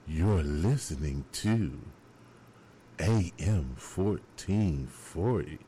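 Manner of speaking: slow, sultry announcer voice, drawn out; imitating Miss Brenda's slow seductive on-air voice; sexy radio voice. DJ imitating a colleague's slow sexy radio voice. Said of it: "talking sexy on the radio".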